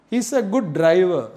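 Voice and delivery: "driver" ending in an open "uh"; silent final R. Shown as a demonstration. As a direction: say "driver" without its last R. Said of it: "The last r sound is not using".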